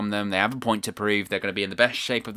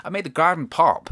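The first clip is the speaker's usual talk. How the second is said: pretend telling off; 6 semitones higher, 3 dB louder than usual. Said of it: "just be like".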